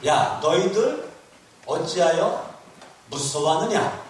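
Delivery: loud, measured scolding; Jesus rebuking. Acted. Jesus to fearful disciples in the storm, rebuking. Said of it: "예수님이 책망하는 거예요".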